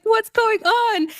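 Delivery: high, drawn-out mock panic; retold alarm. Driver as her car sputters, high mock alarm. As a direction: stretch the question high in dismay.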